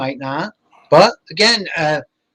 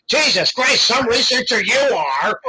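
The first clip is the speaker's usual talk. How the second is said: high laughing scold, voice pushed up; laughing mock scold; 7 semitones higher than usual. Uncle scolding the narrator for missing pictures, laughing. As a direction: tease yourself in the uncle's voice, laughing. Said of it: "He goes".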